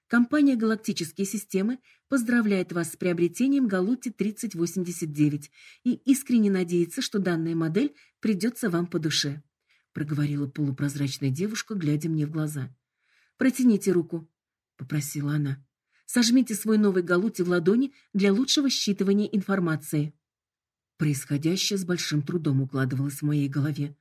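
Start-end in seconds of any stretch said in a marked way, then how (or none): 0.1-9.4 bright, formal corporate greeting; polite hologram voice. Acted. 13.4-14.3 bright, formal corporate greeting; polite hologram voice. Acted. Hologram gives instruction. 16.1-20.1 bright, formal corporate greeting; polite hologram voice. Acted. Hologram gives instruction.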